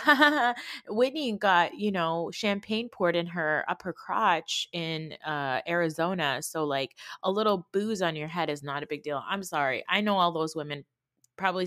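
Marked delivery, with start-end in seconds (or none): 0.0-9.2 mocking quote.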